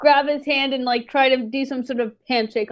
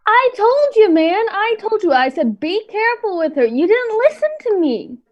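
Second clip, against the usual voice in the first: I told you; 5 semitones higher than usual. Acted. Player scolds friend in character.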